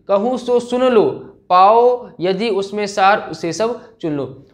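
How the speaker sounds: slow, drawn-out poetry reading; dramatic verse recitation. Acted. Teacher recites Kaikeyi's plea to the assembly, slow dramatic declamation. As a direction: declaim it slowly, pausing between phrases.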